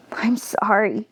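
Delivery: whispered through tears; tearful whisper. Real, not acted. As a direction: breathe a crying apology. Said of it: "And then I did cry".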